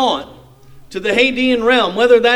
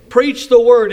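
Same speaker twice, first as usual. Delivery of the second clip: raised, firmly emphatic command; forceful, emphatic scripture quote; 4 dB louder than usual. Shown as a demonstration. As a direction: say PREACH THE WORD with an exclamation point. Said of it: "this is said in the emphatic".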